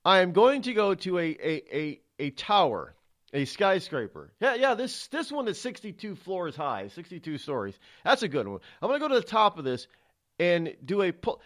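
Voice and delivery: daredevil's inner voice. Retold or imitated. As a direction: voice the stuntman's eager thoughts. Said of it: "this is in my head".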